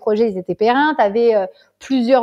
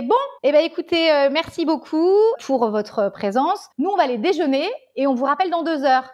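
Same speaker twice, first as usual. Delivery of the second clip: mimicking the official; 5 semitones higher than usual. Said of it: "le mec, il fait".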